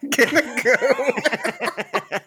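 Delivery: slow, high, laughing Jamaican shout; Jamaican accent. Pretend. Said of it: "in the Jamaican accent".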